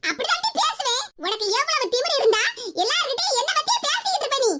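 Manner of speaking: indignant scolding, pitch jumping up; angry. Acted. Mother-in-law scolds daughter-in-law for gossiping, angry. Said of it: "எதுக்கு தே இப்படி கோவமா பேசுதிய".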